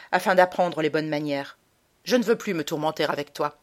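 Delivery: a hint of a cold, scolding mother; stern mother. Mother punishing her son, cold and stern. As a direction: scold the boy firmly.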